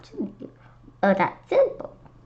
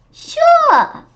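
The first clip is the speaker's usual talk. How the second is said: high, loud, bright sure; eager yes; 11 dB louder than usual. Acted. Teacher answering the kids about candy, eagerly. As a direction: jump on the question eagerly.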